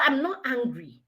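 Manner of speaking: acted denial, fairly restrained; understated defensive retort; mildly angry denial. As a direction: deny the anger with slight irritation. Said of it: "You're obviously angry now".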